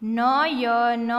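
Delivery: slow, letter-by-letter reading; sounded out. Shown as a demonstration. Teacher showing beginners the letters, sounded out. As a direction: stretch નયન out as na-ya-na.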